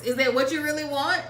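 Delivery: a light hint of a rapper's growl; lightly voiced rap-star challenge. Asking followers if that's what they want, a light impression of a rapper. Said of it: "In my D M X voice".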